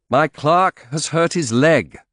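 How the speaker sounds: slow, loud, sharp retort; with asperity. Acted. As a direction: answer back with cold sharpness. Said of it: "I said with asperity".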